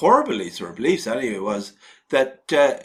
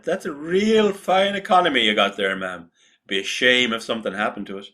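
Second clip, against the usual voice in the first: a hint of a smiling racketeer; friendly threat. Repeats mafia threat in character.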